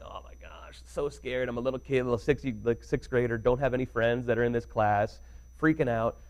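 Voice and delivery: nervous. Retold or imitated. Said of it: "so I'm like".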